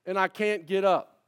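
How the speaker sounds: lightly voiced old lady calling out; understated imitation of the ad lady; Mrs Fletcher's cry. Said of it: "she's crying out in despair".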